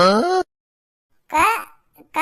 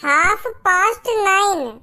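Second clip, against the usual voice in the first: slow, careful; 2 semitones higher, slower than usual. Shown as a demonstration. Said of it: "पर मैं थोड़ा जल्दी जल्दी बोल रहा हूँ".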